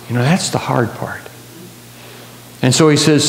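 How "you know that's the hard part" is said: whisper. Real, not acted. Preacher confides the hard part.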